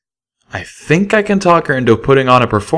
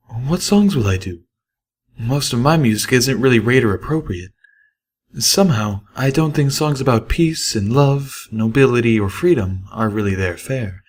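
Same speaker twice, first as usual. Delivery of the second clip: fretting Velvet Remedy; 3 semitones higher than usual. Acted. Narrator voices Velvet Remedy.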